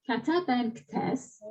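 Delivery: Kate ben ktes, very slow and soft for others to follow; slow read-along. Shown as a demonstration. Teacher leading the class in unison reading. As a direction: read slowly so the class can join. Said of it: "you may read it with me".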